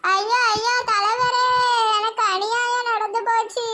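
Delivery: hammed-up crying lament; mock-tragic tearful appeal; tearful wailing. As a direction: wail a plea for justice. Wailing complaint of injustice to leader.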